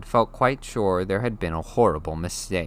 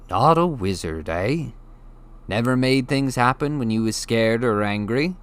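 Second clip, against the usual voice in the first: amused, teasing giant; a gentle chuckle in the voice; chuckling Hagrid; 3 semitones higher, 3 dB louder than usual. Acted. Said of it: "Hagrid chuckled".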